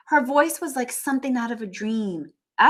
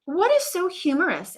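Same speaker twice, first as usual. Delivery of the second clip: teacher asking; 10 semitones higher than usual. Acted. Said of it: "asked Missus Twinkle".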